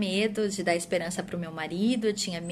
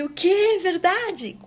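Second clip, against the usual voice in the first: much higher and louder, gasping disbelief; stunned disbelief; 11 semitones higher, 8 dB louder, much slower than usual. Retold or imitated. Woman hearing she is pregnant, shocked and disbelieving. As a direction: shoot up in shock at the news.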